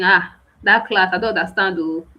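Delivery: mock a student complaining rudely; rude complaint. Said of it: "Don't reach out like it's your right".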